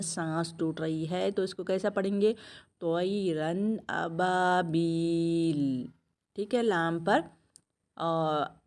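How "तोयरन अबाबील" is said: slow Quranic recitation with a held final L; तोयरन अबाबील read slowly, ending cut short at the stop; pausal form. Shown as a demonstration. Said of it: "अगर वक्फ कर रही हैं, यहाँ पर रोक रही हैं".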